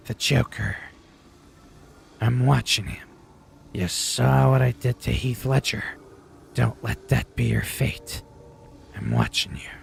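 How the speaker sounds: loom over them as a menacing Batman. Acted. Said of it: "in my Batman persona".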